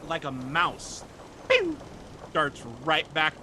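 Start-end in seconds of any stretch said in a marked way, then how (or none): 1.5-1.8 quick little "pew"; short zippy sound effect; imitated darting noise. Game master showing a mouse darting away, quick pew.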